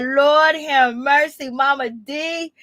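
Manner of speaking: drawn-out, slow lament; dismayed exclamation. Retold or imitated. Host reacting to Mama D, drawn-out dismay. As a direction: stretch out each word in mock dismay. Her own exasperated reaction, acted out.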